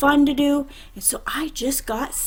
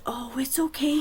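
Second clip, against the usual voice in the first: gentle reassurance. Acted. Preacher soothes scared boy.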